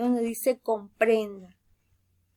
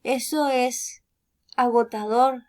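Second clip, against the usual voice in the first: mild squeal; 3 dB louder than usual. Acted. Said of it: "chilló el perezoso".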